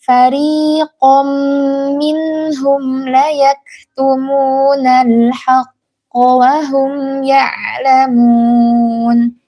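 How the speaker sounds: fariqam with a single light tap on the r, no rolling; correct light ro. Shown as a demonstration. Teacher demonstrating the right ro to the mothers, slow and melodic.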